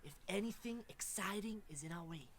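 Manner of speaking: hammy Australian wildlife presenter; bad Australian accent. Wildlife explorer welcoming boys and girls to the wild, bad Australian accent. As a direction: put on a dodgy Australian accent. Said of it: "not got a very good Australian accent".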